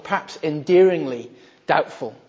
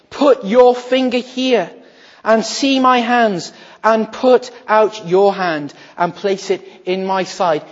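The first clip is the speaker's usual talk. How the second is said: louder, slow, deliberate offer; earnest invitation; 3 semitones higher, 6 dB louder, slower than usual. Acted. Jesus invites doubting Thomas to touch his wounds, slow and earnest. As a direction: hold out the invitation slowly and boldly.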